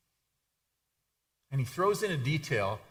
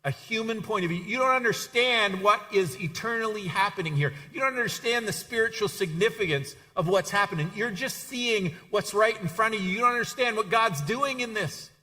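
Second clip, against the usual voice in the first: higher-pitched, insistent scolding; firm, acted reprimand with raised pitch; stern rebuke; 6 semitones higher than usual. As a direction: sternly set a follower straight. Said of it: "he said to Peter very sternly".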